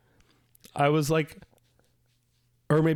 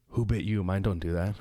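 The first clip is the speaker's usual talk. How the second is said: vampire. Retold or imitated. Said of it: "I was a vampire".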